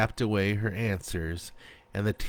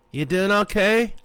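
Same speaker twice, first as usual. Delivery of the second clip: friend's voice; 12 semitones higher, 6 dB louder than usual. A narrator's reading. Friend checking in.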